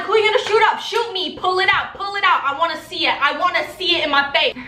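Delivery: high-pitched retold challenge, rapid repeated demands; heated dare. Storyteller confronting the boy who threatened to shoot, heated dare. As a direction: goad them with mock-furious insistence.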